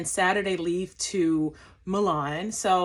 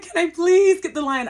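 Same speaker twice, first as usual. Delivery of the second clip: pleading; 9 semitones higher, 7 dB louder than usual. Retold or imitated. Begging at passport control.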